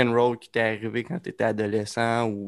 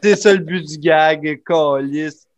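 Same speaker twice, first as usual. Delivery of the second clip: heated; 4 semitones higher, 7 dB louder than usual. Real, not acted. Heated defending the gag.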